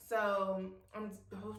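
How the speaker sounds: tripping over words with emotion; stumbling, overcome with gratitude; stuttering. Real, not acted. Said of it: "I'm stuttering 'cause I'm grateful".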